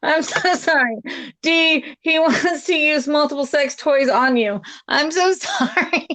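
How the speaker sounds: giggling through the words; sorry between laughs; laughing apology. Real, not acted. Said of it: "Oh my God".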